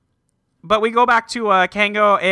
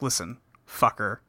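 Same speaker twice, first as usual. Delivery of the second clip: tough guy; 6 semitones lower, 7 dB quieter than usual. Retold or imitated. Tough guy Leo threatening.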